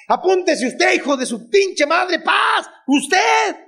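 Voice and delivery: high, shouted picks from the crowd; mock bossy callout; calling out. Real, not acted. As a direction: point and holler at them. Calling on audience members.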